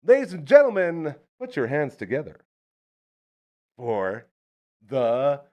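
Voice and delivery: booming ring announcer intro; grand entrance announcement. Acted. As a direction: announce him like a big star. Introduces guest to studio.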